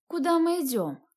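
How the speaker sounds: high, slurred and tongue-heavy; drunken mumble. Acted. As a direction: struggle to shape the words, too drunk. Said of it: "С трудом ворочая языком, пробормотала я".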